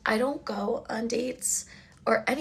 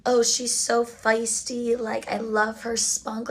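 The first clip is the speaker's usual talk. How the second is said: slow mocking; slower than usual. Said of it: "and he's like".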